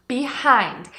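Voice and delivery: Behind with the h of the second syllable audible; h sounded. Shown as a demonstration. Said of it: "A segunda sílaba começa com a letra H".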